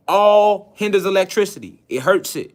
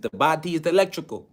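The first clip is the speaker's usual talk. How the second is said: imitated accent of the teacher, softer; Dr. Sebi's accent; 4 dB quieter than usual. Lecturer quotes his teacher, in the teacher's accent. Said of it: "You know, in his accent".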